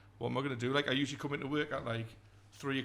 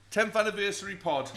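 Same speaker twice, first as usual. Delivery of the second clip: laughing; 6 semitones higher, 6 dB louder than usual. Real, not acted. Joking podcast anniversary, laughing.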